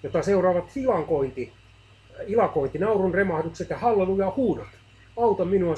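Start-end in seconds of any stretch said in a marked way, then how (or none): 5.2-5.8 louder, higher plea for help; pleading cry. A narrator's reading. Man pleads with God, louder anguished cry. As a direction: beg loudly from the depths. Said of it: "Hän parkaisi hädissään".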